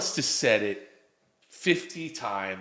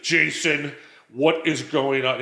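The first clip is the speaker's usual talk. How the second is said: raised, drawn-out scolding, mimicking his kid; mock yell, slow and louder; imitated yelling; 3 semitones higher, 6 dB louder, slower than usual. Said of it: "yells at me like my wife will yell at me".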